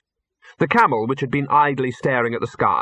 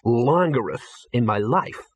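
slow, cool and deliberate; icy, measured statement; cold; slower than usual. Acted. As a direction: lay it down coldly, taking your time. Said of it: "said Ginger coldly".

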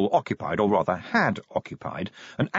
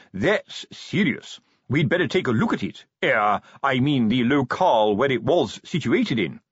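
pompous sergeant voice; 2 semitones higher than usual. Acted. Colon voiced in read story.

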